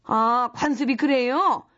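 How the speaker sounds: slow sarcastic repeat of 그래요; sarcastic echo. Acted. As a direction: drawl 그래요 back in disbelief. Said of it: "mocking repeat of boss's words".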